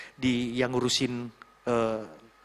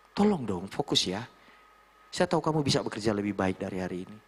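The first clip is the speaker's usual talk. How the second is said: lower, controlled appeal; firm, constructive; 6 semitones lower, 3 dB quieter than usual. Shown as a demonstration. Mentor asking a worker to do better today, firm and constructive. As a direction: urge them firmly without attacking. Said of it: "Bahasamu tegas, jangan ke personalnya".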